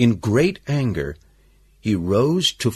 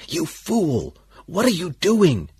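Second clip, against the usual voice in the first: tense, higher-pitched scolding, half whispered at most; angry whisper; 6 semitones higher than usual. A narrator's reading. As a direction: scold urgently without really shouting. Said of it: "the boss asked in an angry whisper".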